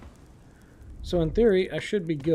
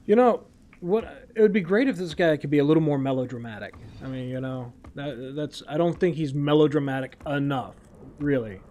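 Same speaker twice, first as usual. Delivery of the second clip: dry sarcasm, as if making a sincere complaint; mock-earnest critique, laid on drily; sarcastic. Real, not acted. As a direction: deliver it with tongue in cheek. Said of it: "That was sarcasm".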